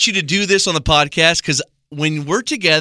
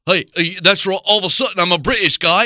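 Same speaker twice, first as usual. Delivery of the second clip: a bit higher, mock British; mock British accent; 4 semitones higher, faster than usual. Host mimics friend's British guy, mocking British accent. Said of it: "but you'll be like".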